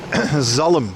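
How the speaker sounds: Zalm said the Dutch way, a short z and no silent L; Dutch pronunciation. Shown as a demonstration. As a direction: say Zalm like a Dutchman, one clipped syllable. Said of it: "That's how you pronounce it".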